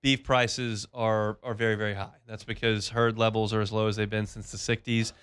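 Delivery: host-read sponsor spot, slowing to make a point; live beef sponsor spot read by the host; radio ad read. Acted.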